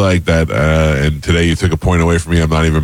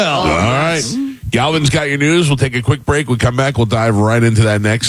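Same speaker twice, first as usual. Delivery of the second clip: upbeat radio break announcement; radio host outro; 5 semitones higher than usual. Acted. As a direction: sell the break like a DJ.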